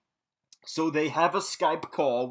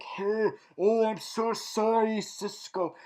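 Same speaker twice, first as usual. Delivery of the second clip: higher, hammed-up sorry voice; mock apologetic; 6 semitones higher than usual. Thawne apologizing to Cisco at first, mock apologetic. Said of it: "is all like".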